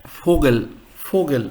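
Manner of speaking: "Vogel" starting with an f, as FO-gel; German pronunciation. Shown as a demonstration. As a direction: say "Vogel" with f and a falling end. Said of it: "So in German word".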